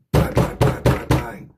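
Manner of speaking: rough banging, then high shouted command; acted-out police shout; imitated police raid. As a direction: hammer out the knocks, yell like police. Acting out armed police at door.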